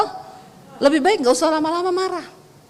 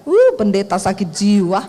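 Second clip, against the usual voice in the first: mock devil taunt; 5 semitones lower than usual. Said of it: "setan giniin saya".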